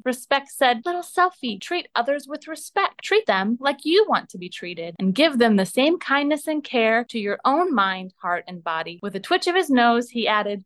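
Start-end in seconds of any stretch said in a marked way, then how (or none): 0.8-9.0 a hint of a gentle, polite bunny; respectful rabbit voice. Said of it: "the most respectful and rabbity voice".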